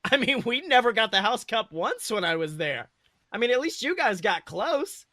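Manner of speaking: mother reassuring her disappointed son; mom's voice. Acted. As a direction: cheer up her son after the loss. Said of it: "She finally responds with a small laugh".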